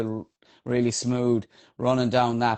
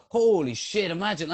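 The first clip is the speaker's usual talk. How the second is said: shocked exclamation; 6 semitones higher than usual. Retold or imitated. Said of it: "I was like".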